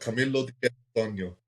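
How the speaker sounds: lightly Italian-accented name. Shown as a demonstration. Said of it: "in a proper Italian accent".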